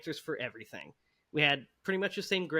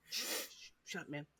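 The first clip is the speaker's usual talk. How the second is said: unvoiced whisper, much softer; urgent classroom whisper telling a friend to hush; whispered shush; 2 semitones lower, 15 dB quieter than usual. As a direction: hiss it so the teacher won't hear. Hushing friend during class.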